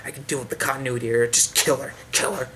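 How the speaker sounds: hushed, unvoiced chant of kill her; gleeful whispered cheer. Reviewer whispering mock cheers for the villain. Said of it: "I'm like".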